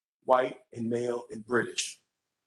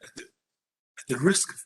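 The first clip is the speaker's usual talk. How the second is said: put-on half-hearted British accent, halting; British accent, badly done and tentative; attempted British accent. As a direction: lightly imitate a polite British academic. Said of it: "I can't do his British accent".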